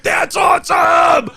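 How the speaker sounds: high, drawn-out mock whoop; imitating thrilled son. Parent mimicking son delighted by car fire, high drawn-out whoop. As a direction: stretch it out like an awestruck kid. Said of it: "And my son was like".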